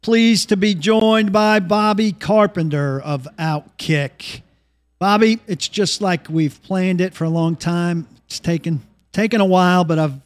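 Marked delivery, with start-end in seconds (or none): 0.0-4.4 measured broadcast welcome, stretched place names; slow, deliberate on-air host intro; radio show intro. Real, not acted. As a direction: welcome listeners back like a radio host, drawing out key words.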